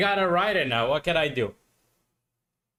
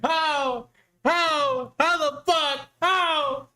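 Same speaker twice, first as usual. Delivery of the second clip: much higher, slow, incredulous "how?"; can't believe what just happened, voice jumping up; stunned disbelief; 10 semitones higher, much slower than usual. Real, not acted. Disbelief at a missed trade.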